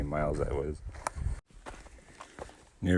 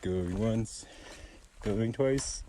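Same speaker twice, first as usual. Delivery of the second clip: mock auctioneer call, sold shouted. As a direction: rattle off bids, bang the gavel on sold. Going once going twice sold.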